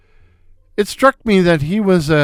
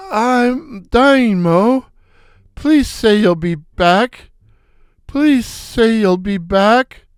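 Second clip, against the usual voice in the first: pleading; 5 semitones higher, slower than usual. Acted. Begging Mo to return.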